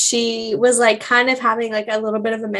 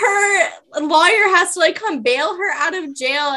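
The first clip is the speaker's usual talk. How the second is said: laugh-crying; 5 semitones higher than usual. Real, not acted. Laughing while retelling sad scene.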